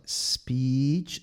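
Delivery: SPEECH starting on a gentle long hiss; soft S. Shown as a demonstration. Teacher reminds learners, soft starting S.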